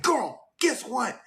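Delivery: slow, high sing-song tease; teasing hook. Retold or imitated. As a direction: stretch it out to build suspense. Friend teasing big news.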